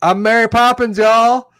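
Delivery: high-pitched delighted shout; high quote voice. Acted. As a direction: squeal it out like the movie line. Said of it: "best scene of the movie".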